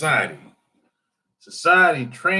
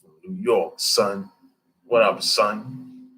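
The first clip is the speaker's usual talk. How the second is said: street slang impression; 4 semitones lower, slower than usual. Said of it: "street guys be like".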